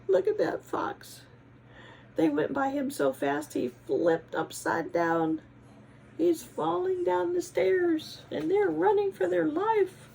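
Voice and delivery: high, loud giggling narration; laughing excitedly. Real, not acted. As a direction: laugh along at the tumbling fox. Laughing at fox falling.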